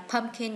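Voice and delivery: pumpkin stressed on the first syllable, PUMP-kin. Shown as a demonstration. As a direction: put the weight on PUMP in pumpkin. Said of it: "nhấn âm một".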